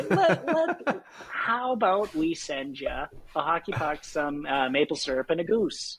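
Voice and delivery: put-on playful, drawn-out Canadian accent; Canadian accent coming out. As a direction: joke offer in a hammed-up Canadian accent. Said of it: "I can hear it coming out".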